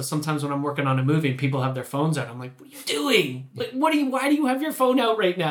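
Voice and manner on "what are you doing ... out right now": high-pitched, indignant British telling-off; retold British reprimand, pitched well up; British accent. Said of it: "do you turn British when that happens".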